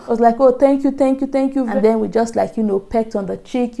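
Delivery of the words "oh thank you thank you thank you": higher, lightly gushing thanks; excited thanks. Retold or imitated. Translating mother-in-law's thanks for the flowers, mildly excited imitation. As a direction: imitate delight with a lifted, repeated thank-you. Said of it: "She was so excited".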